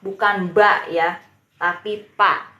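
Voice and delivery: pa with a plain unvoiced p, not ba. Shown as a demonstration. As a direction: say pa without voicing the b. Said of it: "bacanya P".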